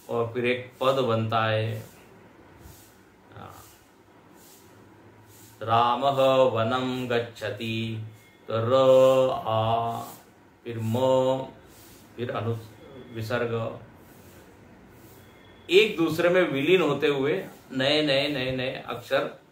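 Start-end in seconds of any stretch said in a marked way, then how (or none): 5.6-13.8 slow syllable demo. Shown as a demonstration. Teacher showing students how syllables flow, very slow spelling out. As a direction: draw out each sound slowly.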